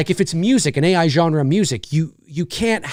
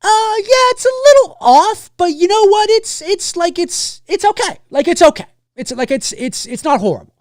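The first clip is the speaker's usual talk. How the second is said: much higher put-on voice of a grudging Hungarian viewer; picky Hungarian viewer; 13 semitones higher, 4 dB louder than usual. An authentic Hungarian judging Brody's accent, high, grudging put-on voice. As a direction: shrug it off high-pitched, like a fussy native Hungarian who lets it slide. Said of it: "they might be like".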